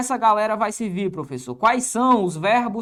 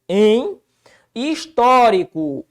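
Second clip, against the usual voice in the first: slow stress; 5 dB louder, much slower than usual. Shown as a demonstration.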